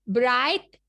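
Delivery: ब्राइट said clearly as "brait" with a rising tune; ब्राइट stressed a little, rising, for the class to echo. Shown as a demonstration. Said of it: "बोलिए मेरे साथ साथ".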